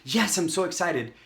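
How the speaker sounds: mock enthusiasm; excited prospect. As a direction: mimic an eager yes. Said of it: "they're so excited and they're like".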